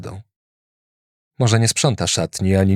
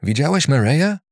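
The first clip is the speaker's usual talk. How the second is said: Andy's voice; 6 semitones higher than usual. A narrator's reading. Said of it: "zapytał".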